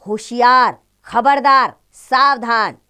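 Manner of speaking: loud, sharp warning call; a guard bellowing at intruders to beware; stern warning. Shown as a demonstration. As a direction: shout a warning of danger. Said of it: "चेतावनी बोधक शब्द है".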